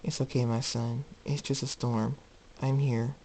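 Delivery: soft, soothing motherly voice; gentle reassurance. Acted. Mother comforting her colt in the storm, gently reassuring. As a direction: softly comfort a frightened child.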